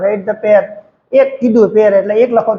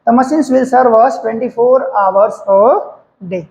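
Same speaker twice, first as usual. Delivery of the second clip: slow dictation; much slower than usual. Shown as a demonstration. Teacher dictates answer slowly.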